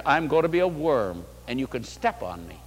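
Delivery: mock doormat. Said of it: "Don't take the attitude".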